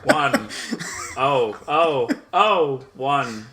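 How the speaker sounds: halting, jumpy reading of numbers; odd pauses, pitch leaping on each digit; Christopher Walken. Retold or imitated. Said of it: "Christopher Walken reads binary".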